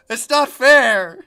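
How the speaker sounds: loud, high, drawn-out mock protest; mock outraged yell. Streamer protesting that she can't keep up reading, mock outraged yell.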